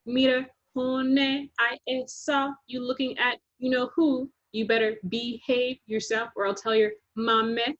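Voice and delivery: sassy Latina schoolgirl teasing; teasing girl. Acted. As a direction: tease her like a sassy older girl. Thule teasing Dreenie.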